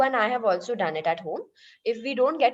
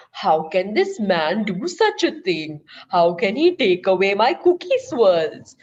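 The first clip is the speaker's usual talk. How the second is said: woman's inner complaint; 3 semitones lower, 4 dB louder than usual. Acted. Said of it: "She says to herself".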